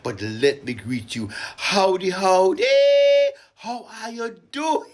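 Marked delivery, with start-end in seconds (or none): 1.6-4.9 high, loud sing-song howdy; high bouncy hello to the crowd; Vincentian greeting. Shown as a demonstration. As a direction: call it out like a village greeting. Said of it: "when we say".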